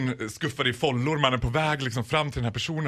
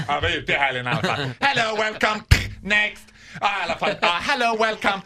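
lazy passport officer; 5 semitones higher, 4 dB louder than usual. Retold or imitated.

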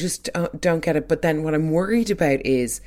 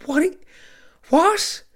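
high, rising disbelief, climbing higher on the second "What?"; baffled "what"; 3 dB louder than usual. Retold or imitated. Voicing Ryder's bafflement at Chloe with a sharply rising, high "What? What?". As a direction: squeak it out in total confusion.

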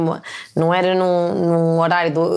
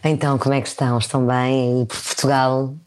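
seductive voice; 5 semitones lower, faster than usual. Shown as a demonstration. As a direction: purr it like a seductive radio host. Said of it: "aquela voz sedutora que tu sabes bem fazer".

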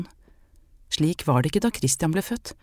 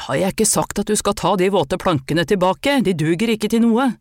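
angry scolding; 3 semitones higher, 3 dB louder than usual. Acted. Man scolds her in the yard.

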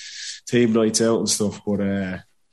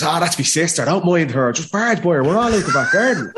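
higher-pitched, carefree reassurance; breezy dismissal; 5 semitones higher than usual. Retold or imitated. Mick on the phone telling him to barge in, breezily dismissive. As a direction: imitate a mate waving away the problem, voice climbing.

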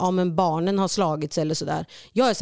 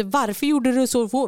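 irritated question; 6 semitones higher than usual. Retold or imitated.

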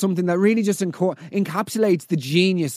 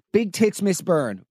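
slow, drawn-out deadpan pronouncement; slow deadpan verdict; slower than usual. Pretend. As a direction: announce it slowly like a final verdict. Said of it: "mock staff settling on the name".

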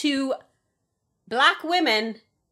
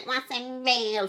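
mock sarcasm; 4 semitones higher, 4 dB quieter, much slower than usual. Mocking Trump fraud claim.

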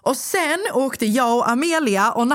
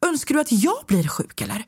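higher-pitched retold retort, mildly irritated; re-enacted annoyance, pitched up but not shouted; irritated comeback; 6 semitones higher than usual. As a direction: throw the question back with irritation. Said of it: "Så jag var irriterad".

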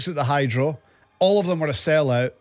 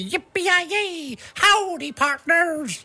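cowboy whoop; 13 semitones higher, much slower than usual. Acted.

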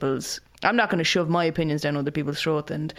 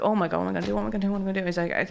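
panicked fading repeat; 3 dB quieter, much faster than usual. Retold or imitated. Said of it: "I'm there like".

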